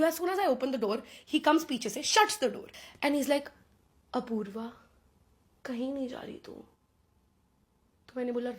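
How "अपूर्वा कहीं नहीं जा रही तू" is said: put-on soft, menacing threat to the girl; quiet and sinister, barely voiced; menacing captor. Captor Rohan blocks the door.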